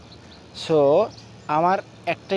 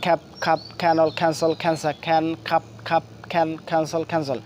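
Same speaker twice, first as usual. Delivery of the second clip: in one breath. Shown as a demonstration. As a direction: rattle off খ্যান, খ্যাপ, খাপ in one breath. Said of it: "এক নিঃশ্বাসে এই ছয়টা শব্দ আমরা বলার চেষ্টা করবো".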